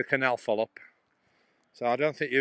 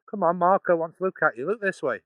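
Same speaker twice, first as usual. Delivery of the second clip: higher-pitched call to get an animal's attention; coaxing an animal; 4 semitones higher, 3 dB louder than usual. Real, not acted. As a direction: coax it to turn and look. Calling to an animal in field.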